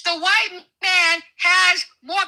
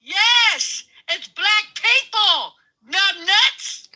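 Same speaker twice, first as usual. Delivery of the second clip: angry insistence; 4 semitones higher, much slower than usual. Real, not acted. Insisting during the argument.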